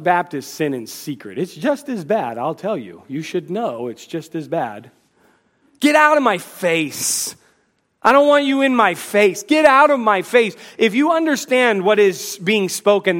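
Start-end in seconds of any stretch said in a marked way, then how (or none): 5.8-10.5 angry. Retold or imitated. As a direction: push someone away in anger, building up. Acting out an angry outburst.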